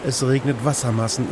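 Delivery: normal talking voice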